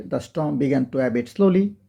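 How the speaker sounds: each word of the storm began to abate said very slowly, with storm stressed; slow model reading. Shown as a demonstration. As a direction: read it out word by word for learners. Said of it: "অন্তত দুইবার পড়বে". (ধীরে ধীরে স্পষ্ট করে পড়া)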